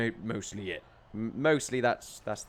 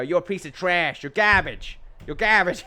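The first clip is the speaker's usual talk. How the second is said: louder, higher mock insult, building on garbage; punchy insult; 5 semitones higher, 6 dB louder than usual. Shown as a demonstration. Showing viewers why trash hits harder, loud mock insult. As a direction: hurl it like a playground taunt. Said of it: "Much more punch in that".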